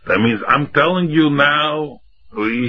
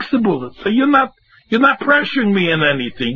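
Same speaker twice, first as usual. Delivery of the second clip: defiant retort; 3 semitones higher than usual. Retold or imitated. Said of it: "looks him in his face and say".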